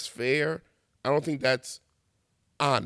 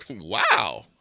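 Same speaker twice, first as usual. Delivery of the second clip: laughing wow; 7 semitones lower than usual. Real, not acted. Laughing at red-flag posts.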